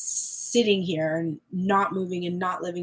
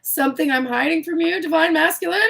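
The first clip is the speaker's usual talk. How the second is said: higher, louder, worked up; indignant; 7 semitones higher, 6 dB louder, faster than usual. Acted. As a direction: demand it with indignation. Voices an indignant question.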